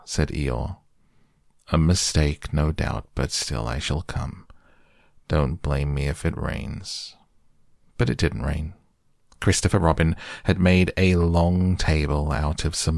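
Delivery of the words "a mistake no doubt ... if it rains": gloomy donkey. Acted. Eeyore voiced gloomily.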